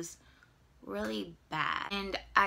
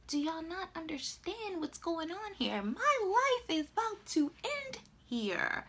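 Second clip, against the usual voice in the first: despairing plea; 8 semitones higher, 4 dB quieter than usual. Retold or imitated.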